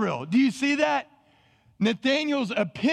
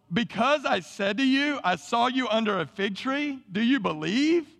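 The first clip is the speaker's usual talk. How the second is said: borderline sarcastic; 3 semitones higher than usual. Acted. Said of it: "almost being borderline sarcastic".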